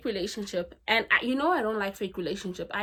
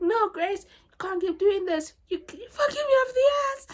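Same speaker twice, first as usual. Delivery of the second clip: high, loud quote, breaking into laughter; laughing through quote; 12 semitones higher, 6 dB louder than usual. Retold or imitated. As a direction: squeal the boss's line, laughing. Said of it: "He's like".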